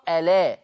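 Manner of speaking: ألا run together as "a-la" with no second glottal stop; hamza dropped, vowel transferred. Shown as a demonstration. Teacher explaining naql, ألا with the vowel on lam. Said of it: "عشان كده تقرأ".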